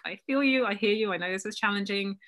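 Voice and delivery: high-pitched, soothing sympathy; nurturing. Acted. Coach nurturing her inner child, soothingly. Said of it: "you kind of nurture your inner child".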